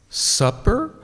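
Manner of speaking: longingly. Acted.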